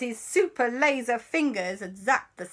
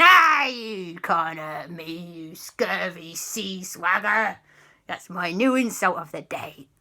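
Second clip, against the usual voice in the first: defiant pirate ghost; slower than usual. Acted. Pirate ghost insults Papa.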